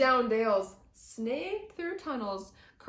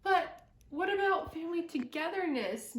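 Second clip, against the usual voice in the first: sighing; 5 semitones higher than usual. Acted. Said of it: "Moose sighed".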